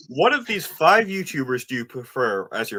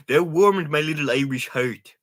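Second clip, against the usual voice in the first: terrible Jacksepticeye impression. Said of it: "That's the terrible Jacksepticeye impression".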